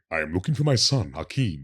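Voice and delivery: lightly voiced weighty, resonant bass impression; hint of a booming elder statesman; James Earl Jones. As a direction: articulate every word like a stately actor. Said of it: "you sound like you ate James Earl Jones".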